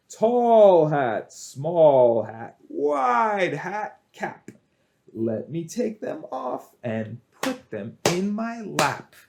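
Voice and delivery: emphatic singsong rhyme with swooping key words; children's rhyme. Shown as a demonstration. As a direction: chant it boldly for little kids, punching the first hats.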